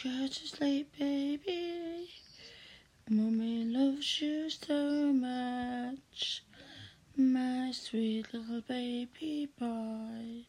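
bedtime talk to pet. Acted. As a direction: soothe someone gently into sleep. Lulling partner to sleep.

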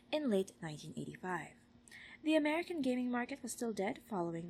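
clear, animated documentary-style read; reading aloud. Acted. Reading a game console book passage, clear read-aloud voice. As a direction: read it out with lifted key words.

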